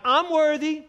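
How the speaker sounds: loud, high self-proclamation; mock boasting. What the Lamb never says, mock boasting. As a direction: crow it like a braggart, mockingly. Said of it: "he's not like".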